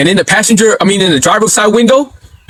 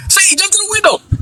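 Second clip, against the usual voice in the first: high urgent call; 12 semitones higher, 4 dB quieter than usual. Retold or imitated. Teens in the car calling to their friend, high urgent call. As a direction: urge him in, high and eager. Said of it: "we'd be like".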